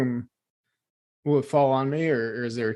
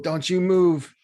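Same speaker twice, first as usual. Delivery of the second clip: higher-pitched urgent command to a companion; mild yell; 4 semitones higher than usual. Acted. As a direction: call out a firm order, only lightly yelled. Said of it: "I'll yell to Dumple".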